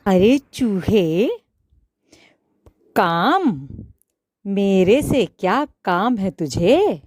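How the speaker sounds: a touch of gruff irritation; understated annoyed tailor; lightly angry tailor snapping; mild anger. Acted. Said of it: "दर्जी ने गुस्से में बोला".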